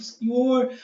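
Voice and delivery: woman in the scene. Acted. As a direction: lightly voice a woman addressing the Lord. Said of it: "a mulher falando".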